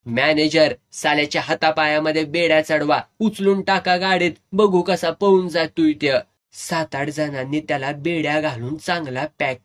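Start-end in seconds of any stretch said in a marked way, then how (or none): 0.1-6.2 angry orders. Retold or imitated. Owner orders him chained.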